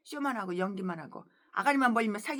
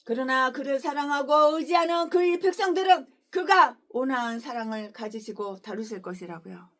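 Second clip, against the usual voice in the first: scripture reading. Acted. Pastor reading scripture to the congregation, measured. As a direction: read the verse gently and evenly.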